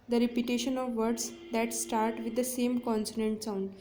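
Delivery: very slow, word by word, like dictating notes; slow dictation. Shown as a demonstration. Teacher dictating a definition to her students, very slow. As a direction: read the definition slowly so students can write it. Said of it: "teacher reads the definition aloud".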